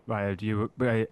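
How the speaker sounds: mildly exasperated, imitating a rude waiter; condescending retold server. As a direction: talk down as if to an imbecile. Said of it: "talking to Scott like he was a fucking imbecile".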